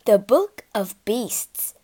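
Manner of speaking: slow, otherworldly proclamation; enchanted book proclaiming its title; magical declaration. Acted. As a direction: let the book itself announce its name, slowly. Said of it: "gleaming gold letters on the cover declared".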